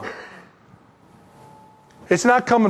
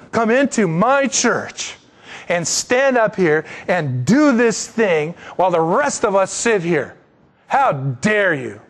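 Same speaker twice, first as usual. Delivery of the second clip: indignant; slower than usual. Retold or imitated. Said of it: "answered and said with indignation".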